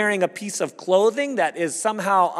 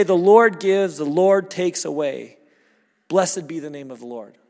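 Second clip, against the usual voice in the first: louder, the Lord gives proclaimed; preaching at full force; 5 dB louder than usual. Acted. Pastor proclaiming Job's blessing to the congregation, loud.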